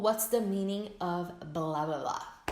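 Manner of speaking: slow, clear alternate form; slow template. Shown as a demonstration. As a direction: give the second pattern slowly.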